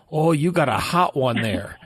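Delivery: lightly attempted Dutch doctor accent; a hint of a bad Dutch accent; terrible Dutch accent. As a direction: do a poor imitation of a Dutch accent. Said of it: "that was a terrible Dutch accent".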